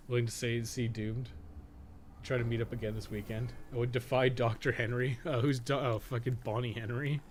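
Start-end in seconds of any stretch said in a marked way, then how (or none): none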